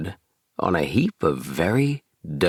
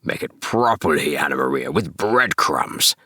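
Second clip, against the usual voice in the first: Samuel Whiskers. Acted. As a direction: drag out the breadcrumbs, stubborn old rat. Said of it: "said Samuel Whiskers".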